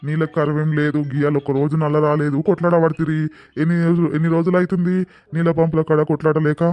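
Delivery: loud exasperated scolding. Acted. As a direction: tell them off loudly. Scolding the quarrelling women.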